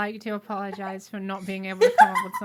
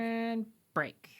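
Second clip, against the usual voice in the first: whispered sign-off; 8 dB quieter than usual. Acted. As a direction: breathe it, no voice. Sign-off for the break.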